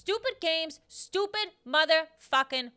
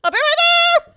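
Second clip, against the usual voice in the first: high shout; 17 dB louder than usual. Acted. Continuing the shouting bit.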